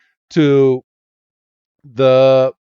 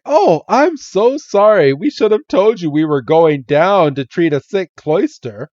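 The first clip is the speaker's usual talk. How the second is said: apologetic; 3 semitones higher than usual. Retold or imitated. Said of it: "And she's like".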